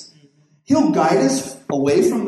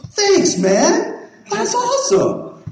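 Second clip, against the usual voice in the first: grateful homeless man; much slower than usual. Retold or imitated. Homeless man thanks pastor.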